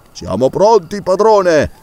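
eager reply. Acted. Servant answers eagerly.

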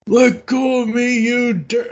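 high, tough gangster snarl; Nightstick voice. Retold or imitated. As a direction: snarl it like an old-timey tough guy. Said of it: "he's the voice of Nightstick".

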